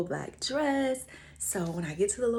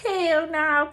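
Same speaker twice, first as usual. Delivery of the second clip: emphatic; 10 semitones higher, 7 dB louder than usual. Retold or imitated. Emphatic refusal.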